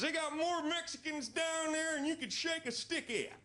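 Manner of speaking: very high, thin imitation of the El Paso friend; friend's voice. Warning the comic about the El Paso bit, high squeaky voice. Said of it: "That's how he talks".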